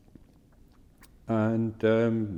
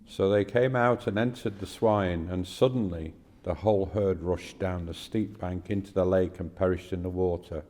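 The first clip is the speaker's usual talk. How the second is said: measured, clearly projected Bible reading; scripture reading. Acted. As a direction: read the passage aloud formally, pausing between phrases. Reads a scripture passage aloud.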